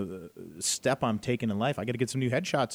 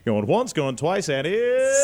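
auctioneer; 6 semitones higher, 5 dB louder, slower than usual. Pretend. Auctioneer closing the sale.

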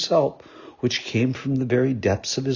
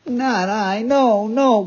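high, louder, lightly sobbed denial; sobbing bitterly; 9 semitones higher, 5 dB louder, much slower than usual. Acted. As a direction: plead it through mock sobs. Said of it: "sobbing bitterly".

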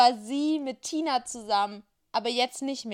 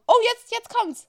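excited; 12 semitones higher, 7 dB louder than usual. Real, not acted. Anticipating the age question.

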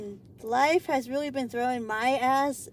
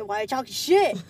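accusing relative; 7 dB louder than usual. Retold or imitated. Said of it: "be like".

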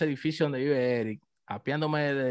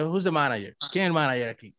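pregunta educada y tranquila; pregúntalo con buenos modales; cortés. Retold or imitated. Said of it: "No, yo de". (en tono cortés)

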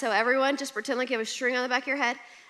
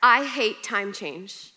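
grumpy complaint; 4 dB louder, much slower than usual. Retold or imitated. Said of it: "first words that come out of my mouth".

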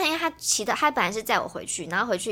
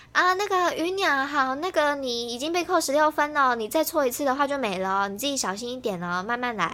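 driving examiner; 4 semitones higher than usual. Retold or imitated. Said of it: "他就说".

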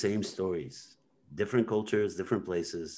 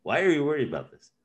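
Death asking again; 6 semitones higher, much faster than usual. Retold or imitated. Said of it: "Death asks".

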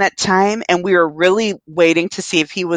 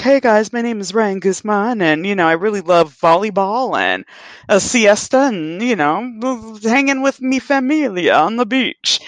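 imitating Ryan Guzman; 2 semitones higher than usual. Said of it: "the Ryan Guzman I knew was always like".

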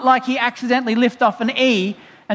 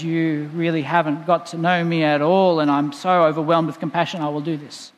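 gutted; 5 semitones lower than usual. Acted. Preacher voicing Jesus moved with compassion, gutted. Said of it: "Maybe that just guts Jesus".

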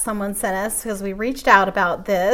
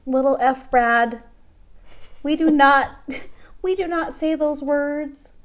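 put-on scolding a toddler; 3 semitones higher, slower than usual. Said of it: "grab him by the shoulders and say".

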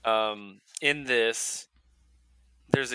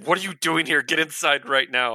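louder, higher mock telling-off; acted annoyance, raised voice; irritated scolding; 5 semitones higher, 7 dB louder than usual. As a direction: order him in, exasperated. Bruce scolds Superman in retold quarrel.

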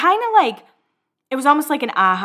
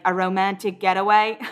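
put-on amateurish Australian accent; attempted Australian accent. Upset Corey asking about Justin, in a shaky-attempt Australian accent. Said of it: "my attempt at an Australian accent".

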